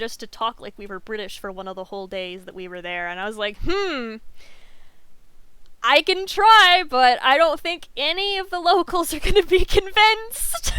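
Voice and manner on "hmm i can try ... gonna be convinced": hammed-up doubt. Telling the tour guide she can try, hammed-up doubt. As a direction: voice big comic doubt, pitched well up.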